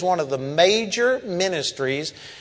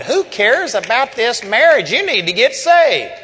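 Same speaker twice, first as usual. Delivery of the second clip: louder and higher, driving it home; forceful rebuke; 4 semitones higher, 4 dB louder than usual. Retold or imitated. Preacher rebuking the woman in the break room, forceful and raised. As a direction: hammer the point like a preacher scolding.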